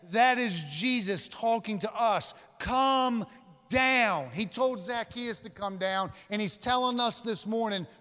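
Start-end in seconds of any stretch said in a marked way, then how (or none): 2.6-4.3 commanding shout. Acted. Preacher shouting Jesus's command to Zacchaeus, loud. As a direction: shout come down with full force.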